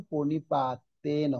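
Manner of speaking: slow প্রণিপাতেন with the final ন sounded open; separate syllables. Shown as a demonstration. Teacher showing students a word without hasanta, প্রণিপাতেন drawn out, final "no" voiced. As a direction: say প্রণিপাতেন syllable by syllable, ending on a full "no". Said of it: "এককভাবে উচ্চারণ".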